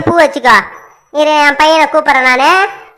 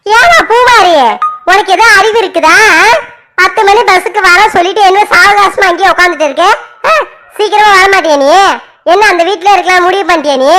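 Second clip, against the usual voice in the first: sharp, raised scolding of a late daughter; angry scolding. Acted. Mother scolding her late daughter on the phone, angrily. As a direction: nag her hard, voice pitched up. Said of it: "ஏன் அப்படி என்கிட்ட கோவமா பேசுற?".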